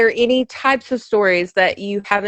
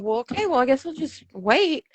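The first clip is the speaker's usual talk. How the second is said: resigned; 3 semitones higher, 6 dB quieter than usual. Retold or imitated. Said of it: "I'm sitting here going".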